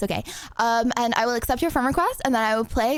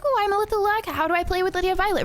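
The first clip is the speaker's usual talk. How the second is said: lurker voice; 7 semitones higher than usual. Pretend. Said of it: "you're like".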